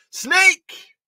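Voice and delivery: high shrieking yell; scream. Acted. Leon pranking Duke with one last shrieked warning. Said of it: "Leon screams".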